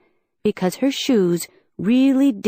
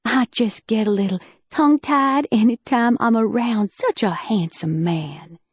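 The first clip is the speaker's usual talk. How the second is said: flirting. Acted. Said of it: "I flirted".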